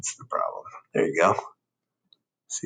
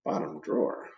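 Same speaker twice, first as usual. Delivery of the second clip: whispered, much softer and lower; 8 semitones lower, 11 dB quieter than usual. Acted. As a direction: breathe the hint secretly. Dark repeats under breath.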